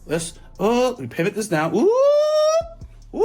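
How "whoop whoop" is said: short, high whooping noise; playful whoop. Real, not acted. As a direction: let out a quick rising "whoop". Noises while moving a figure.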